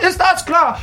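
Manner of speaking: yelling in despair; furious director. Acted. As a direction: blow up at the hopeless actor. Director exploding at actor.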